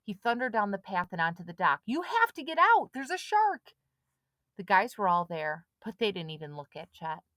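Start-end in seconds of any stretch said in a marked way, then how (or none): 1.9-3.7 high, loud urgent cry; boy shouting a shark warning. A narrator's reading. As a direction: warn them at full voice. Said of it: "Chet started shouting".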